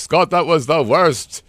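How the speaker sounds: a hint of Cary Grant, stretched slow; Cary Grant-ish. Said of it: "That sounded like Cary Grant".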